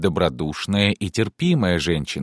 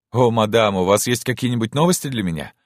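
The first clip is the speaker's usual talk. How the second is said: higher, quick burst of hope; sudden eager cry; 5 semitones higher than usual. Acted. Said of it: "вдруг крикнул он". (внезапный взволнованный возглас)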